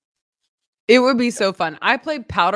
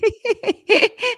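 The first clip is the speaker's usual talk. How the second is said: high-pitched burst of laughter; laughing. Real, not acted. Teased about hitting girls at football, laughing. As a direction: laugh high at a co-host's teasing.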